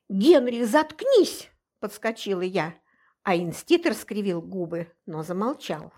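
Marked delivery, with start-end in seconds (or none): 0.1-1.5 louder, higher snapped order; sharp shut-up. Acted. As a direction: cut him off hard. Heroine cuts off Henrich.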